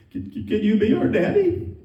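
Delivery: halting, lightly voiced child's plea; a hint of a quivering-lipped child; tearful little girl. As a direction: imitate a little girl asking hesitantly. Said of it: "her little lip is quivering".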